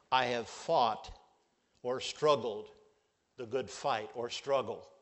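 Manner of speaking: 1 quoting Paul. Retold or imitated. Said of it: "this is what he could say".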